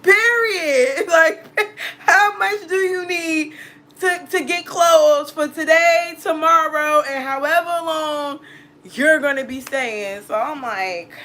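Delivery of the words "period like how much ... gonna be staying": high-pitched laughter through the words; laughing hard. Real, not acted. Laughing at her boyfriend's offer, laughing hard. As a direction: crack up while repeating his line. Cracking up retelling his offer.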